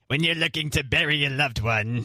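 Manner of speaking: lightly voiced ghoulish announcer; a hint of a creepy funeral ad; Crypt Keeper voice. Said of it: "the Crypt Keeper voice".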